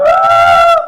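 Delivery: a sudden high burst of delight; enthusiastic cry. Retold or imitated. Patient suddenly keen on the ruqyah, eager cry. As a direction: jump in with an eager shout. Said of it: "Kalau dia semangat".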